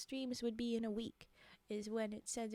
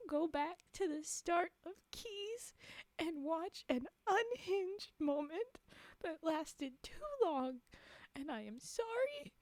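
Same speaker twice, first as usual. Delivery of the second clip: slow, higher, theatrical appeal; dramatic plea; 4 semitones higher than usual. Acted. Streamer begging a late viewer to rewind, theatrically pleading. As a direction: plead slowly, drawing out each phrase.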